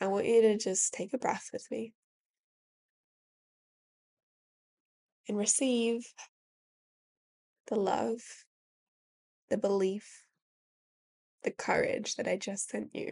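teary, heartfelt voice on the edge of tears. Speaking to listeners who have felt doubt and fear, tearing up. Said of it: "I'm tearing up as I say that".

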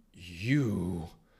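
disbelieving, incredulous tone. Narrator reads a man's word to a thing looming in the doorway, in disbelief. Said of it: "disbelief in his voice".

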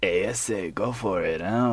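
put-on cartoon bird voice. Ending a rambling remark with a Road Runner impression. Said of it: "that was my roadrunner impression".

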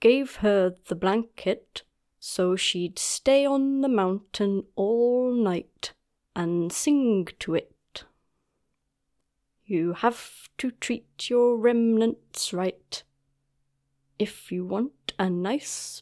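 very slow, drawn-out seal-creature storyteller voice. Player voices a seal-like person telling a story across the fire; seal-like creature voice. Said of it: "I think across the fire from someone's character is a sort of round, soft shape. And it is a sort of seal-like person, / And it is a sort of seal-like person, or walrus-like, whichever you prefer. Nice".

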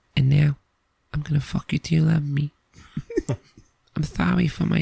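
put-on soft, gentle ASMR voice. Joking about an ASMR channel, doing Mike Tyson ASMR voice. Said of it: "Mike Tyson's A S M R".

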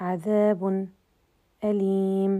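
short silent catch before أليم. Explaining sakt before the hamza, per Imam Hamza: brief stop before أليم. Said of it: "السكت قبل الهمز نقول".

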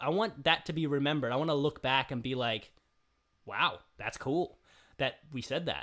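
ordinary talk

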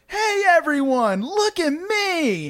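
mock high, slow, showing-off shout.

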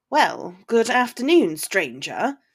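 sly, needling, smirking, teasing tone. Theo greets Draco; smirking. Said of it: "he smirked".

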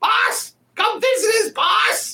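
very high, shrill goblin yell. A goblin calls back through the gate to its boss: goblin yelling out. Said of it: "Kind of yelling out over inside".

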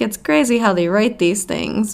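speech mixed with put-on laughter. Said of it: "she busted out laughing because she's like".

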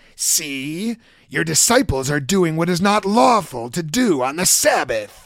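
slow put-on villain voice, See stretched out. Reading the Pharisees' line to kids in a Green Goblin voice. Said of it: "I would adopt some kind of a voice like".

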